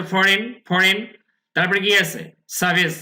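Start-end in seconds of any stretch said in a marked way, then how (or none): 0.0-1.1 "ফরেন" said carefully as fo-ren; modelled pronunciation. Shown as a demonstration. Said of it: "উচ্চারণটা". 2.5-2.9 "সার্ভিস" as sa-vis, R dropped; silent R pronunciation. Shown as a demonstration. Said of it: "এখানে আর এর উচ্চারণটা হবে না".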